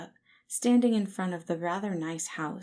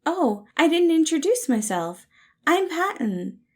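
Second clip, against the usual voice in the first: much higher and louder, beaming; cheery with a smile; 11 semitones higher, 10 dB louder than usual. Acted. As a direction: introduce yourself with a big smile. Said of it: "the soft man said with a smile".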